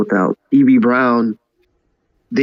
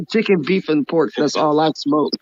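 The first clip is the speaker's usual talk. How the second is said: laughing; 4 semitones higher than usual. Real, not acted. Laughing at his meat joke.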